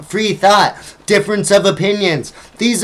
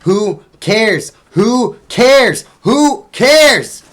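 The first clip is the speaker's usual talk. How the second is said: starts level, climbs higher and louder each time; building exasperated shout; 5 semitones higher, 4 dB louder, much slower than usual. Real, not acted. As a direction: throw it louder and louder, fed up. Rant escalating to exasperation.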